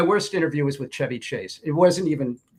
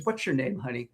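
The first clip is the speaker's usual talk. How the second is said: softer, coaxing question; gentle Morrison; 6 dB quieter than usual. Retold or imitated. Morrison softly asking the waitress her name. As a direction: ask kindly and quietly.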